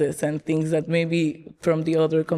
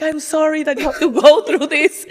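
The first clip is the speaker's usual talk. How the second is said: sister's sympathy; 7 semitones higher, 5 dB louder than usual. Retold or imitated. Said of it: "my sister was like".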